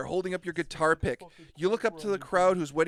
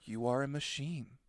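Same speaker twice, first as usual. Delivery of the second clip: speaking slowly; 3 semitones lower, 8 dB quieter than usual. Acted. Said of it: "speaking slowly".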